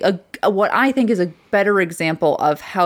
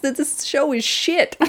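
blunt verdict; 4 semitones higher, slower than usual. Real, not acted. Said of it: "I love your books".

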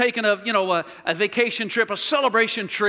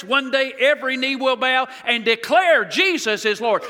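full-force preaching. Acted. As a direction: preach it out, building to a shout.

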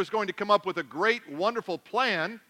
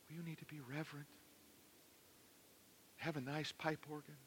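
much softer, hushed and prim, mocking stuffy church; mock reverent hush; 5 semitones lower, 24 dB quieter, faster than usual. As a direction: parody a stiff churchgoer in a hush. Mocking call for reverent worship.

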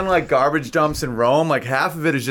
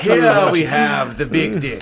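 mock guide; 3 dB louder, slower than usual. Mock museum guide joke.

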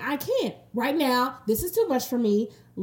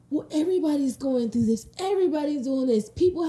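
slightly raised, mocking voice; dismissive mimicry; 4 semitones higher than usual. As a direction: mimic people brushing off worries. Mimicking people who dismiss her feelings.

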